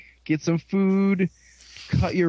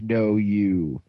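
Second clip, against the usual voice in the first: mock lower-pitched retort; retold retort; 6 semitones lower than usual. Retelling a character's answer to Blade Runner, mock retort. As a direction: say it low, as the character. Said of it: "And he's like".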